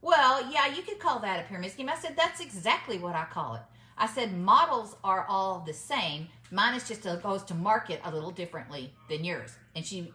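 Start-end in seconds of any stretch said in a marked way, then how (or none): 0.0-1.9 retold flustered backing down, pitched up; startled concession. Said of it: "got this startled look on her face". 2.2-9.6 firm retold comeback, measured and emphatic; assertive, matter-of-fact rebuttal; strong reply. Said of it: "I said it in such a strong way".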